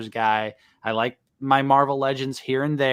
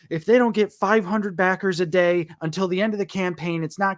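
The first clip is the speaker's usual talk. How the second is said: mildly panicked quote, pitched up; lightly voiced fretting backers; mock freaking out; 6 semitones higher than usual. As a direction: imitate worried fans with a higher voice. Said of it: "people were freaking out and saying".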